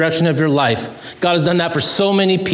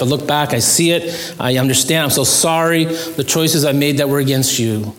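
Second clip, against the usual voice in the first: a gentle, earnest prayer of confession; 2 semitones lower than usual. Acted. Pastor voicing a prayer for the congregation, humble and earnest. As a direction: pray it humbly, as if alone with God.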